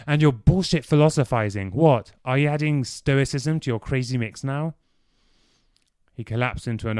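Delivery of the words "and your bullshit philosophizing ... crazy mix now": cutting in sharply, a bit louder and higher; savage interruption. Acted. Clive cuts Dorian off in disgust, savagely. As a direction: snap at Dorian's philosophizing. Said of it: "Clive cut him off savagely".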